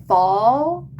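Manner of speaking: slow, drawn-out American "fall"; American accent. Shown as a demonstration. Reader tries an American accent on "fall" for viewers. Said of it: "my American accent".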